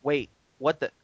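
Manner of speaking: hammed-up panic summoning Google; mock panicked townsfolk. Townsfolk suddenly calling for Google, mock panic. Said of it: "everyone kinda looks around and says".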